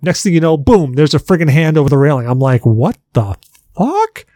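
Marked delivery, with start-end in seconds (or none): 2.7-4.2 mock startled shriek; retold shock. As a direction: squeal it out in startled disbelief. Retold shock at jump scare.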